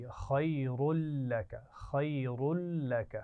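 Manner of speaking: "खैरुल लक" slow with a thick ra and the lam joined; teacher repeating the phrase to show a heavy ra; heavy ra demo. Shown as a demonstration. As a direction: stretch "खैरुल लक", ra heavy, no nasal hum. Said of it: "खैरुन में रा भी मोटी पड़ जाएगी".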